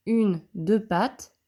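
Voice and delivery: counts the legs slowly, one by one; slow counting. Shown as a demonstration. Teacher counting the legs of the N slowly for pupils. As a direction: spell it out slowly for the class. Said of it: "le mot dans".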